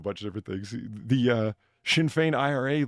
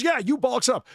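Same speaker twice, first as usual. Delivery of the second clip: mock Irish indignation, louder; more indignant; 11 semitones higher, 6 dB louder than usual. Pryce throwing it back at her, rising indignation. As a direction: ham up the rising quarrel. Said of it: "increasingly indignant".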